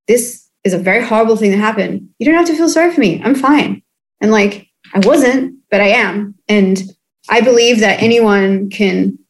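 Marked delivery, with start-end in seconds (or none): 0.1-3.8 brushing it off so no one feels sorry; mock breezy brush-off. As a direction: rattle it off like nothing happened. Breezy front about trauma.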